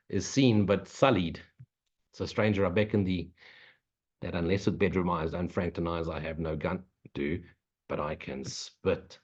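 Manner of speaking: mock-solemn poetry reading; poem recital. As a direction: recite it like a dramatic poem, fading toward the end. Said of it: "And quote poetry, apparently".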